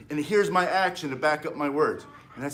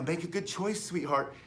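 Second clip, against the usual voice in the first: mock sweet teacher; 7 dB quieter than usual. Mocking soft teacher talk.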